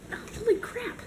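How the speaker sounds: sudden high yelp of frustration; startled exclamation. Real, not acted. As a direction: blurt it out as the lid fights back. Struggling to open a lid.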